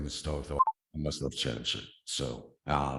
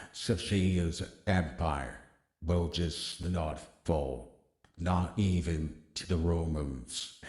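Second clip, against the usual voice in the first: epic, measured commentator voice; Peter Drury. Acted. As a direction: narrate it grandly, with weighty pauses. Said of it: "put on this voice to try to sound epic".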